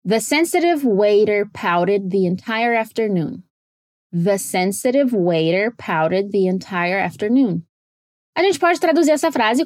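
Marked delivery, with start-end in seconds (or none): 0.1-3.4 careful English, "pouted" said like "powded"; flap T sentence. Shown as a demonstration. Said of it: "quantos flap T's você escuta". 4.1-7.6 slow, lower, "sensitive", "waiter", "pouted" with t's like D; slow careful English, "waiter" said like "wader"; slow flap T sentence. Shown as a demonstration. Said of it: "quantos flap T's você escuta".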